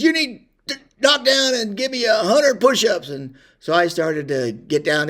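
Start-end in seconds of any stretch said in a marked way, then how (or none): 0.0-3.1 much higher, much louder mock sergeant bark; drill sergeant yell. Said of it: "he says".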